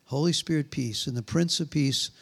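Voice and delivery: solemn, low-pitched blessing; closing prayer. Real, not acted. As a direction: pray peace over the congregation. Closes by praying over congregation.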